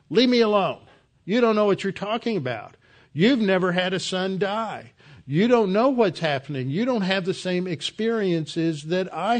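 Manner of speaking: worked-up, arrogant protest; arrogant retort. Acted. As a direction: act out a self-absorbed king brushing off advice. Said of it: "continued to be self-absorbed and arrogant".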